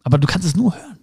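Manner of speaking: ordinary talk, nothing marked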